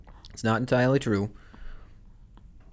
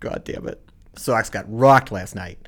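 put-on Boston accent; 6 dB louder than usual. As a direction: say it like a cheerful Boston fan. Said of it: "talk about the Sox losing in a Boston accent".

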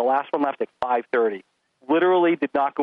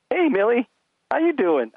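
higher, mock charming greeting; smooth teen boy; 8 semitones higher, slower than usual. Imagined boy greeting daughter, mock smooth. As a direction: play a boy sweet-talking.

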